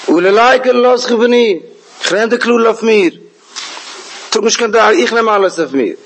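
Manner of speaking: Rivka. Retold or imitated. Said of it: "וואס האט רבקה געענטפערט".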